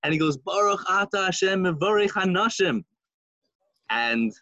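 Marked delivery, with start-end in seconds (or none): 0.4-2.8 high, heartfelt mock-tearful blessing; fervent blessing. Simple Jew blessing the women, high and fervent. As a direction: sing out the blessing with feeling. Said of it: "and he's crying".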